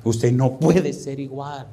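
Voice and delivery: very slow, measured delivery; slow, weighty repeat. Real, not acted. Preacher letting the point settle on listeners, slow and grave. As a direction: let each word sink in slowly.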